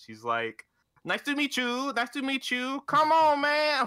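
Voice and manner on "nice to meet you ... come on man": very high, loud, fumbling broken English. Retelling a streamer introducing herself to a stranger: imitating broken English. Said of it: "in her shitty broken English".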